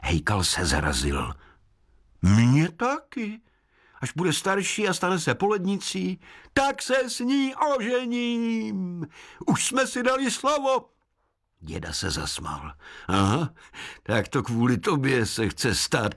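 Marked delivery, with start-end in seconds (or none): 2.2-10.9 high, odd woodland voice; forest spirit. Acted. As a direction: speak like a kindly sprite. Hejkal speaks.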